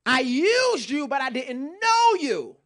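slow, solemn voice of Jesus; a measured, grave rebuke; lightly voiced Lord; voicing the Lord. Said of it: "He said".

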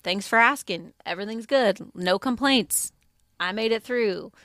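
imitating rote, upbeat stock replies; on autopilot. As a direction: recite polite reassurances on repeat, pitched slightly up. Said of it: "we were on autopilot".

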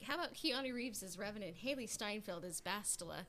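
a lightly voiced eager fan pitching a dream cast; mock fan pitch. Podcaster mocking a fan's casting idea, lightly voiced eager fan. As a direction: toss it off like a naive fan's suggestion. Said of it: "fan casts where it's like".

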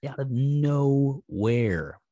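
slow, deliberate repeat; very slow emphasis. Real, not acted. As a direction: stretch each word out slowly. Repeats the phrase, slowing it for emphasis.

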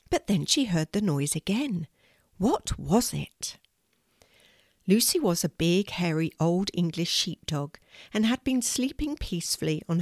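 gentle storybook reading; calm storyteller voice; story narration. A narrator's reading. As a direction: read it like a bedtime story to grandchildren. Grandma reads bedtime story.

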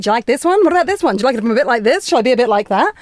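podcast guest mimicking her younger self trying on personas, eager; eager to please. Imitating herself fishing for approval. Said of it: "being like".

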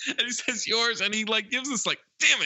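high-pitched, barely holding back laughter; laughing retelling. Real, not acted. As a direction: crack up while delivering the punchline. Cracking up retelling movie gag.

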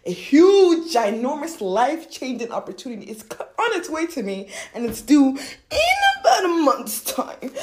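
loud, high-pitched hyped affirmation; excited attitude. Shown as a demonstration. Coach showing the attitude for an opportunity, hyped up. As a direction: belt it out, stretching the final words. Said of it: "You have that attitude".

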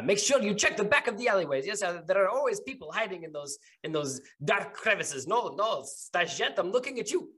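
brisk woman barking orders down an alley; woman's voice. Acted. Game master voicing a woman ordering alley searches, high and brisk. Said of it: "it is a woman's voice".

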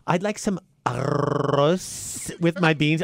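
fake Spanish accent. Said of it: "these people come in and go".

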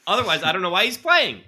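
high and loud through a laugh; laughing mockery. Real, not acted. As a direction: laugh it out in disbelief. Mocking a bad defender, laughing.

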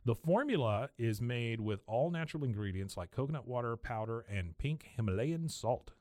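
podcast sponsor read; host-read commercial. Acted. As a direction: read the ad copy in an easy, even sell. Reads a sponsor ad.

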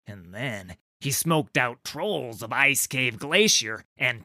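rough troll gossip, pitch jumping on king; grumbling northern troll. Acted. Sligu telling Trundle about Yeru, grumbling. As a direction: complain about the upstart king.

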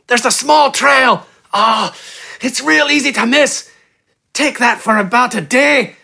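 high, desperate pleading in short bursts; pained gasps. A narrator's reading. Injured bandit giving directions, gasping in pain. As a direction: gasp it out high, through agony. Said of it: "The man spoke between pained gasps".

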